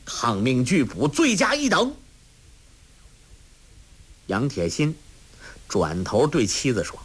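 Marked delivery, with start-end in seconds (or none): 0.0-1.9 rising to a high shout; officer's threat. Acted. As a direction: threaten the rebels. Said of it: "叫道".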